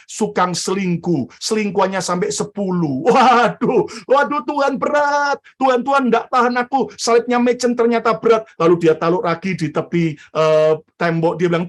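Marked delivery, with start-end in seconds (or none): 3.0-8.5 straining complaint. Acted. Mother strains under heavy cross.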